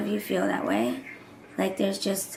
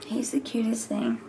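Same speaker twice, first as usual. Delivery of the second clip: soft doting whisper; 3 semitones higher, 3 dB quieter than usual. Real, not acted. Mother gushing over her little boy, whispered. Cooing over baby son.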